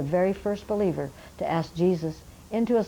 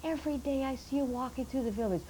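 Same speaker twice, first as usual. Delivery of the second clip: put-on much higher, curious old elder's voice; old man questioning; 7 semitones higher than usual. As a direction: ask like a puzzled old elder. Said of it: "He said".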